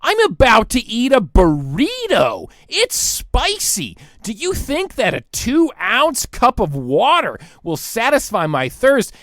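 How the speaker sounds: mock-innocent question about a tiny cup; mock plea. Sarcastic plea to the waiter about the tiny cup. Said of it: "you have this tiny cup and you go".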